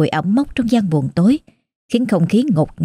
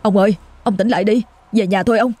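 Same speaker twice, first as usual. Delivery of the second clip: put-on frightened boy pleading fast, voice shaking; a scared child tugging at his master and calling out; trembling voice; 3 semitones higher, faster than usual. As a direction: beg the old man to wake, trembling with fear. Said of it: "giọng run rẩy".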